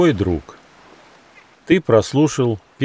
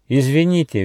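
higher-pitched, courteous kangaroo; polite; 6 semitones higher, 3 dB louder than usual. A narrator's reading. Kangaroo approaches the strangers with a question, polite. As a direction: excuse yourself politely, pitched up. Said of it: "вежливо спросила кенгуру Ругена".

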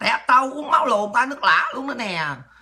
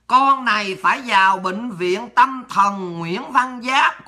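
slow, deliberate reading of an insult; mock reading aloud; much slower than usual. Streamer reading a hater's insult aloud, slow mock reading. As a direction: spell out the comment at a slow pace. Reads insulting comment before retort.

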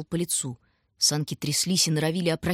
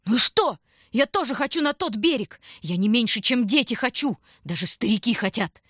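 higher, loud, pleading rant; desperate shouting; 5 semitones higher, 4 dB louder than usual. A narrator's reading. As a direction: stranger shouting back at the children, desperate shouting. Stranger shouts back at the children.

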